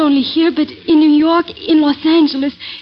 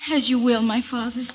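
softly, giving in; quiet submission; 2 semitones lower, 8 dB quieter than usual. Acted. The daughter yielding to her father, very soft. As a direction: let the voice sink away as you obey.

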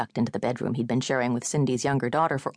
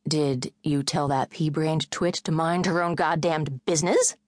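angry. Acted. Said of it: "The angry words flew".

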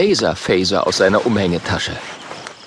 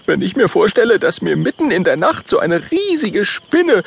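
higher voice, squeamish about spiders; disgusted Oskar; 11 semitones higher than usual. Acted. Oskar imagines a spider on his nose, higher disgusted voice. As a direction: shudder through the thought. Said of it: "Oskar schüttelt sich".

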